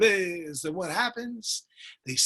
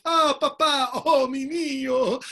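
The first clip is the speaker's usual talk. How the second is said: high, loud mock weeping greeting; tearful reunion cry; 8 semitones higher, 4 dB louder, slower than usual. Son greeting his long-lost father, hammed-up weepy cry.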